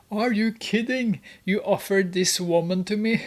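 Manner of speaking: acting out shocked outrage, voice up. Customer reacting to the woman he was offered, shocked. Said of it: "He's in shock".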